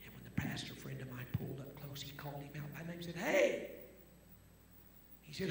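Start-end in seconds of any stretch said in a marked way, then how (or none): 3.2-3.7 calling out. Retold or imitated. Pastor calling man by name.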